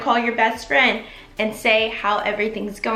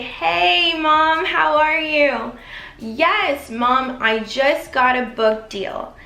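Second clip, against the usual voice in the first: pretend phone call. Shown as a demonstration. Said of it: "And you just say".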